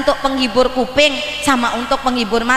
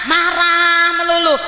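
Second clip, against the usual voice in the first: mock angry shout; 5 semitones higher than usual. Describing nagging at home.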